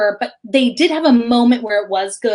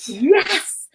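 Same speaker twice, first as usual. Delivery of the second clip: unvoiced hushed whisper; 6 semitones higher than usual. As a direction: breathe the yes secretly. Answers shock in hushed voice.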